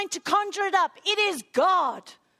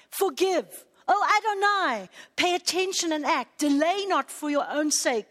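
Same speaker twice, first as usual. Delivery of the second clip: emotional prayer; 2 semitones lower than usual. Real, not acted. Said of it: "because I'm getting emotional".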